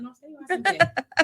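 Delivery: high, loud, drawn-out acted command; mock-order them to stay put; bossy order. Acted quarrel over leaving.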